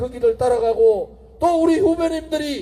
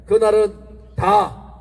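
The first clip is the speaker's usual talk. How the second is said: normal talking voice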